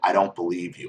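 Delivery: mock-angry, put-on angry tone. Speaker recounts what the other person said as the speaker sat down: retelling an angry reply. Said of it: "in an angry voice".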